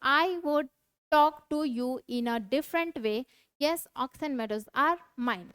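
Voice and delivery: deliberate dramatic reading of a play; slow classroom read-aloud. Acted. Reads Lomov's lines aloud.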